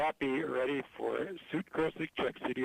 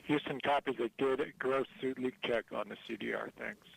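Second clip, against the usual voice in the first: space radio; 3 semitones lower than usual. Real, not acted. Houston radio reply.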